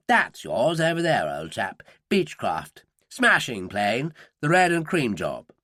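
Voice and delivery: a lightly voiced upper-class English accent; breezy upper-class English accent, old chap style. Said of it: "in a faultless upper-class English accent".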